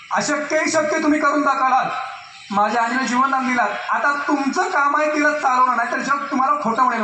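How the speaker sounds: calling out to Swami in the temple, half re-enacted; retold temple shout. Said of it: "मी direct मंदिरात ओरडलो मी मोठ्याने".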